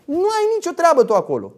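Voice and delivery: ordinary talk, nothing marked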